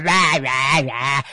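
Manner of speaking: loud, exaggerated "rah" yawn noises; mock yawning. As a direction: imitate someone yawning noisily, mouth wide open. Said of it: "just yawning out there".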